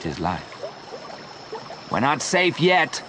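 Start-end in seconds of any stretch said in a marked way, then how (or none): 1.9-3.0 shouted warning. A narrator's reading. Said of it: "Joe shouted".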